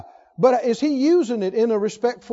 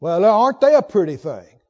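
mildly hammed-up mock compliment, louder; sarcastic; 4 semitones lower, 5 dB louder than usual. Example of twisting words into an insult, sarcastic. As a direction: fake admiration meaning the opposite. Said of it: "sarcastic voice".

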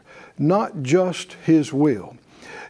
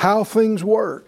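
leading a prayer line; 4 semitones higher, slower than usual. Shown as a demonstration. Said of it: "everybody said out loud".

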